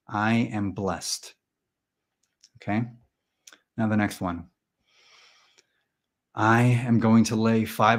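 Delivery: slow, deadpan affirmation voice; measured meditation-class chant, spoken; mock mantra leader. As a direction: recite it evenly for the group to repeat. Leads a mock mantra exercise.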